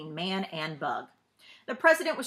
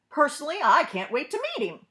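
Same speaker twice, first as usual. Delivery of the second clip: higher, louder, eager; eager president; 7 semitones higher, 6 dB louder than usual. Acted. President tells leaders he can't wait to meet the bug, eager and higher. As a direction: sound truly keen to meet him.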